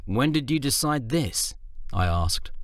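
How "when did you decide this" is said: higher, lightly surprised question; a touch of surprise. Acted.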